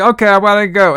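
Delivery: high mock yell; mock screaming. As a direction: yell the goodbye like an overacting kid. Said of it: "just screaming her fucking out".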